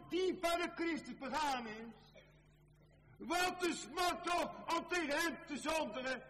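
loud, very high sustained pulpit cry; impassioned preaching. Acted. Preacher crying out over sin against the Master, impassioned preaching. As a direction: cry it out at the top of the voice.

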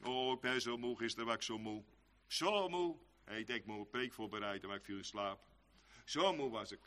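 quiet, low, drained complaint; lazy preacher moaning softly about being tired; mock weary. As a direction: yawn the words out like a sleepy preacher.

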